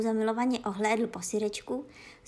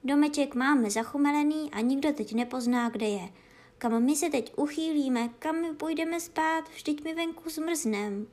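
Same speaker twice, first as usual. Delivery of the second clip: lamenting dog; 4 semitones higher than usual. Acted. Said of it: "bědoval".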